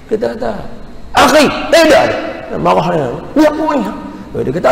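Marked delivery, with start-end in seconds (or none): 1.1-2.6 protesting innocence. Retold or imitated. Retold quarrel, own defence. 3.4-3.9 accusing question. Retold or imitated. Retold quarrel with Arab man.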